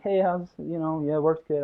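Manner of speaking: mildly hesitant, imitating a nervous employee; timid. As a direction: mumble it to the boss without conviction. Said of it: "and instead of being like".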